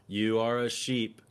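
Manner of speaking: slow, deliberate taunt, each word spaced; slow mock lecture. Man on the plane taunting passengers, slow and deliberate. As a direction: drawl it out like a smug preacher. Retold stranger calling him sheep.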